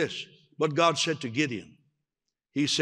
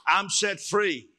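declaring; 4 semitones higher, 3 dB louder than usual. Shown as a demonstration.

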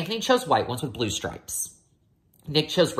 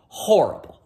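whisper; 3 semitones higher, 5 dB louder than usual. A narrator's reading. Refrain word, whispered.

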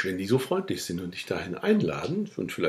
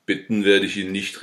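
a lightly voiced cutting refusal; cutting retort; 7 dB louder than usual. Boryna refusing to beg the squire, a mild cutting retort. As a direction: bite the words off, a hint of scorn. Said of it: "rief Borina schneidend".

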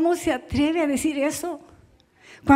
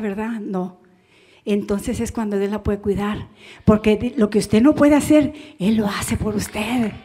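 gentle counsel; 3 semitones lower, 4 dB quieter than usual. Retold or imitated. Pastor retells calming the mother.

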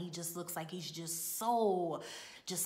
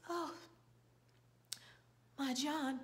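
higher-pitched, halting stage lament; mock tearful grief; 5 semitones higher, 4 dB quieter than usual. Actress mourning John before the prop, mock tearful. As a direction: imitate an actress working up tears. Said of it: "we see some tears starting to form".

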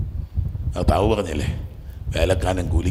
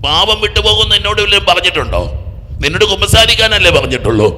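raised, high-pitched sermon challenge, building louder; forceful preaching; 10 semitones higher, 7 dB louder than usual. Real, not acted. Preacher confronting believers about confession, forceful and loud. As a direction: challenge the congregation, voice climbing.

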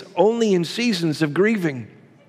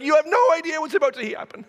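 high, fast, eager mock announcement; a hammed-up eager friend about to see a miracle; full of anticipation; 8 semitones higher, much faster than usual. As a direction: burst in bursting with excitement. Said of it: "full of anticipation".

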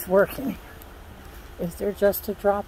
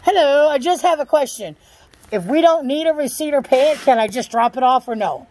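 calling out; 4 semitones higher than usual. Real, not acted. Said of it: "go ahead a little yoo-hoo yell".

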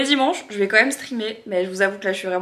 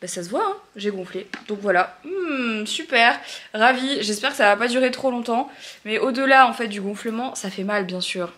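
can't open mouth; 2 semitones higher than usual. Real, not acted. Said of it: "je ne peux pas ouvrir la bouche".

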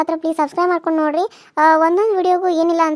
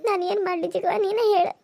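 tearful plea; 2 semitones higher, 4 dB quieter than usual. Acted. Wife despairs, crying.

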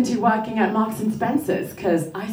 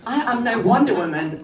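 normal talking voice

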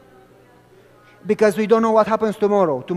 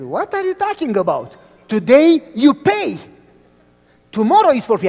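vendor; 5 semitones higher, 7 dB louder than usual. Retold or imitated. Vendor quoted in story.

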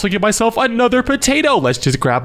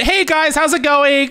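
higher, electronically altered voice; voice changer; 7 semitones higher, slower than usual. Acted. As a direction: talk through a voice changer. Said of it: "let me turn on my voice changer".

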